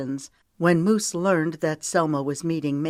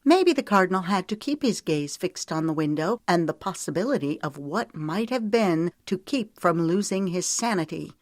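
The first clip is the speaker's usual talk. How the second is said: insistent heroine; 3 semitones higher than usual. Acted. Voices the heroine arguing back.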